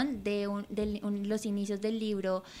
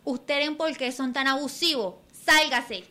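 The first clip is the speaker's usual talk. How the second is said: scolding, loud on the last word; angry old man; 4 semitones higher, 5 dB louder than usual. Acted. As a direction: order him out of the boat. Old man throws youth off boat.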